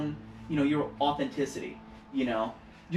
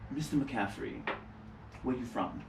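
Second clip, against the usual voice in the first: a light Mid-Atlantic teacher voice, softer; Mid-Atlantic accent; 4 semitones lower, 9 dB quieter than usual. Retold or imitated. Drama teacher questioning a student, lightly Mid-Atlantic. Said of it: "Mid-Atlantic accents".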